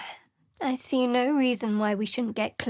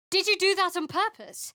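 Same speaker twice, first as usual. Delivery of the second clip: shocked; 9 semitones higher than usual. Acted. Shocked question.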